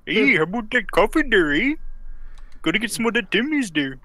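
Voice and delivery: mock Canadian. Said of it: "did you become a Canadian just now?".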